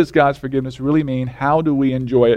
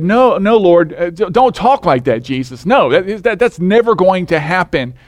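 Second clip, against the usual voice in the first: mild mock rebuke; 2 semitones higher than usual. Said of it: "Peter rebuked Jesus".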